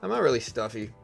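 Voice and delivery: ordinary talk, nothing marked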